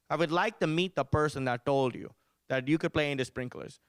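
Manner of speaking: lightly voiced Indian-accented mother; mock stern mom in an Indian accent; contained imitation of an angry Indian mom; mad mom. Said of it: "never seen her this mad before".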